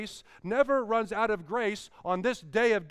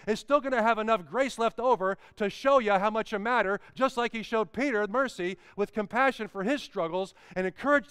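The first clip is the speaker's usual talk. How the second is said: rising, louder preacher cadence; preaching; 2 semitones higher, 3 dB louder than usual. Acted. Preacher lifting the church, rising fervent call. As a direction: build the congregation up with fervour. Preacher builds to full force.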